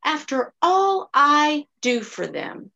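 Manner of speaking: mock the martyr, drag it out; sighing poor-me complaint; self-pitying. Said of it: "I even told myself things like this".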